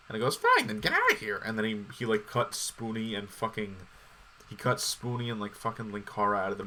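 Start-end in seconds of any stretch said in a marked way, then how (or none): 0.4-1.4 high, loud mock tantrum; angry dismissal. Imitating a director firing his crew, high mock shout. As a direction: throw them out in a hammed-up huff.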